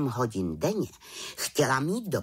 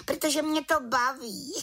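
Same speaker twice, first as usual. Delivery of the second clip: high, mischievous little witch; tease, enjoying the prank; giggly little witch. Acted. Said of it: "Čarodějnice se pochechtávala". (čarodějnice se pochechtává)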